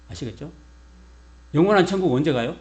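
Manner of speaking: ordinary talk, nothing marked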